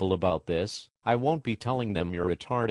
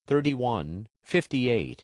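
slow repeat; much slower than usual. Acted. Repeats total slowly.

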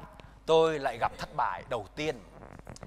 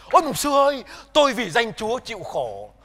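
eager boast; 5 semitones higher, 5 dB louder than usual. Retold or imitated. Woman proudly reports suffering.

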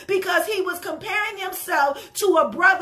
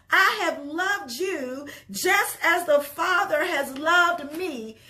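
slow reverent reading; slower than usual. Shown as a demonstration. Preacher first reads the verse to the church, slow and gentle. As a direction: read the verse slowly and gently. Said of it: "He says".

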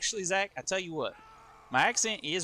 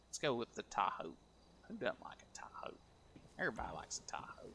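whisper; 3 semitones lower, 10 dB quieter than usual. Real, not acted. Picking a car, muttering to himself.

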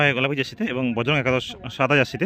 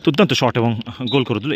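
frantic football commentary. Real, not acted. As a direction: shout out the goal. Goal scored in penalty shootout.

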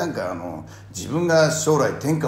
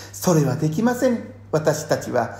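higher wife voice; 4 semitones higher than usual. Retold or imitated. Voicing Sena in scene.

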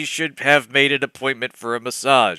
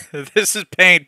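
mock anguish, higher and louder; hammed-up suffering; louder pained cry; 6 semitones higher, 4 dB louder than usual. Real, not acted. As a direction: exclaim it in mock agony.

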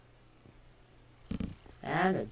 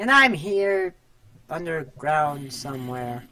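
a silly voice that sounds odd; funny put-on voice; 8 dB louder than usual. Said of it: "That guy sounds even funnier".

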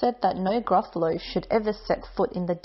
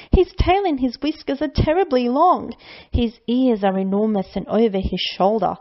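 louder, rising fear; growing alarm; 4 semitones higher, 4 dB louder than usual. Acted. Child seeing the huge shadow, mounting fear. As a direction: panic building at the shadow.

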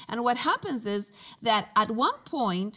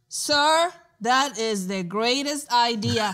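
excited store owner; 3 semitones higher, 6 dB louder than usual. Retold or imitated. Store owner agreeing to throw the birthday party, excited. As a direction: gush with delight at the idea.

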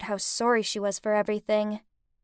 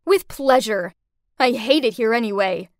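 louder, defiant snarl; 5 dB louder than usual. Acted. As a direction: spit it back at her. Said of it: "snarled back".

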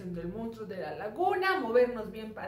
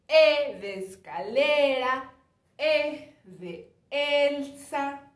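loud drill; 8 dB louder than usual. Shown as a demonstration. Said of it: "teacher shows the vowel E loudly".

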